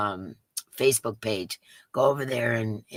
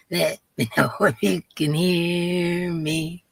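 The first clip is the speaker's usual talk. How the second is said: slow, a laugh breaking in; goofy slow mic check with a laugh; laughing singsong; 2 semitones higher, 3 dB louder, slower than usual. Shown as a demonstration. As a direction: chant it and crack up. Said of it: "with my horrible voice".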